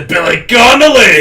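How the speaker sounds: high, loud put-on Scottish accent; Billy Connolly. Shown as a demonstration. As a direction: belt out an exaggerated Scottish comedian voice. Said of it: "it always turns into".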